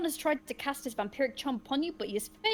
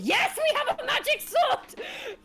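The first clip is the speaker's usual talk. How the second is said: laughing excitedly; 13 semitones higher, 8 dB louder, slower than usual. Real, not acted. Laughing reply to the gamebook.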